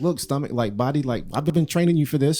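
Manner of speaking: coaxing stomach. Retold or imitated. Coaxing his stomach like trainer.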